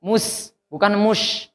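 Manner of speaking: Mus with a clear s, then mush with sh; sin not shin. Shown as a demonstration. Teacher contrasts sin and shin for the pupil. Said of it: "Pakai sin".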